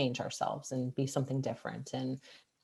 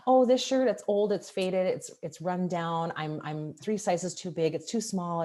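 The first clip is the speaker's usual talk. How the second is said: excuse-making; 4 semitones higher, 3 dB louder than usual. Acted. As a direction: brush off the compliment with excuses. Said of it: "you make all these excuses".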